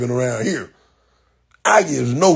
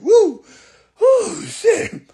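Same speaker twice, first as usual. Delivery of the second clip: laughing; much slower than usual. Real, not acted. Recovering from laughing fit.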